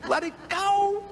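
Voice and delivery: laughing it off, high-pitched; chuckling release. Real, not acted. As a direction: let the laugh carry the words. Laughing advice after embarrassment story.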